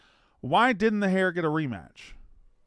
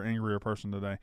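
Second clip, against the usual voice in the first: usual speaking voice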